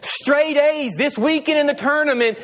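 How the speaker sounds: mock a boasting parent, lightly; a hint of a bragging parent posting online; mocking show-off parent. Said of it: "we are not getting on there and going".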